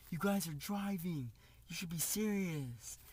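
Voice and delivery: slow, drawn-out mock scolding; stretched-out, mildly cross quote; mild retold anger. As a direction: imitate an angry driver telling you off, without raising volume. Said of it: "he's, like, angry".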